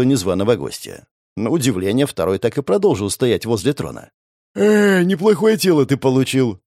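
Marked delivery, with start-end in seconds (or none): 4.5-6.6 fake yawn. A narrator's reading. Hero feigning boredom before the prince, mock-yawning. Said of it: "наигранно зевнул я".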